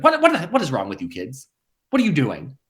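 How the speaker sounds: imitating a fed-up mother, sharp high start; mock scolding of the kids; exasperated mom. Daughter imitating her mother scolding the kids, exasperated. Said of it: "my mother has turned to me and be like".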